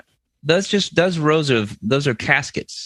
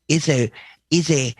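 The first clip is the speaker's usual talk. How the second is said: put-on Italian accent; 3 semitones lower than usual. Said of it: "I'm doing an accurate Italian accent".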